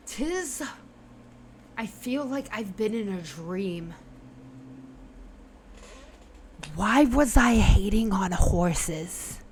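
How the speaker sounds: subdued, dazed madman coming round; calmer voice. Acted. Horseman comes to his senses after the potion, calmer. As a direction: speak as if waking from a dream. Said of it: "Like, his voice is calmer".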